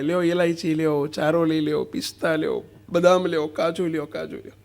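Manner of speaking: a hint of a market hawker shouting; street vendor calls. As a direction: cry out goods like a mad bazaar seller. Madman calling wares in bazaar.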